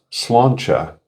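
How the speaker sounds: Slancha said SLAN-cha, ch like in church; Slancha as pronounced. Shown as a demonstration. Reading the Gaelic toast off Google, Slancha said SLAN-cha. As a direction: Slancha with a nasal an and a ch at the end. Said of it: "Google's A I overview says it's pronounced".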